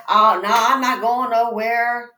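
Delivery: loud mock insistence, easing off; mock stubborn refusal. Imitating a woman refusing to leave her man, mock stubborn. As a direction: imitate someone digging their heels in.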